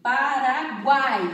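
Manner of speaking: Paraguai said slowly and loud, guai kept as one syllable; teacher demonstrating Paraguai for the class; slow clear demo. Shown as a demonstration. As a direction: sound out Paraguai slowly for students. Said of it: "Como exemplo".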